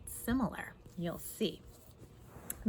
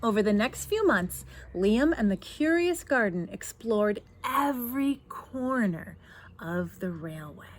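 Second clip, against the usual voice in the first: put-on lively read-aloud to children; louder storybook voice; story narration; 4 dB louder than usual. A narrator's reading. Reads picture book aloud.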